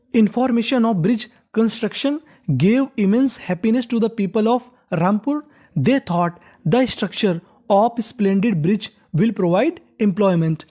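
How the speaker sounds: slow, careful reading of the English text; slow read-aloud. Shown as a demonstration. Teacher reading the lesson sentence to students, slow and careful. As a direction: read it out word by word for learners.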